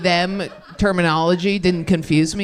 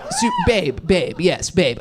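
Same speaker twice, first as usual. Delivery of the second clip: swooning; slower than usual. Real, not acted. Gushing over Elliot Page.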